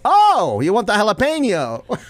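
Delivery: high, loud "oh" of realization; sudden recognition. Retold or imitated. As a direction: act out a vendor suddenly catching on. Vendor's sudden recognition, retold.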